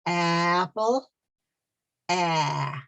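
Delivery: Apple, then only the open ah held alone; stop on the vowel. Shown as a demonstration. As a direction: cut Apple off at its first ah. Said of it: "you say it with me now".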